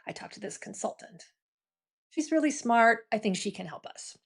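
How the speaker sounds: hesitant, underwhelming little pitch, trailing off; weak pitch. Retold or imitated. Champion pitching a consultant without a framework, hesitant. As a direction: say it like you're unsure it lands. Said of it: "they're kinda stuck saying".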